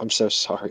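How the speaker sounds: very soft, private whisper. Acting a character looking down into the tunnel darkness: very soft whisper. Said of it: "very softly whisper to myself".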